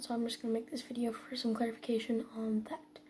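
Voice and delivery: soft whisper, parents asleep. Real, not acted. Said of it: "I'm kinda whispering".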